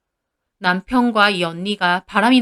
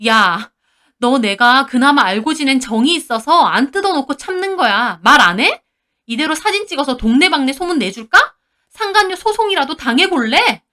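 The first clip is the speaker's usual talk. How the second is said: furious threats; 4 semitones higher, 5 dB louder than usual. Retold or imitated. Wife threatening the mistress.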